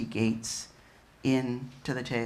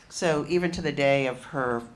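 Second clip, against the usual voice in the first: projecting louder after being asked; 6 dB louder than usual. Real, not acted. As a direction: speak up for the back row.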